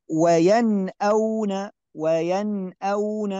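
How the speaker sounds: وينأون slow, nun said clearly before the hamza; clear izhar. Shown as a demonstration. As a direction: draw out وينأون with a plain nun. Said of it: "نشاهد النون مظهرة". (قراءة مرتلة بإظهار النون)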